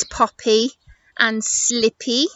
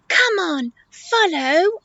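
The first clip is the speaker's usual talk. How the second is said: higher, chirpy beckoning call; eager calling; 8 semitones higher, much slower than usual. Acted. Animals urging Eddie to follow, eager call. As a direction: call the others along, higher.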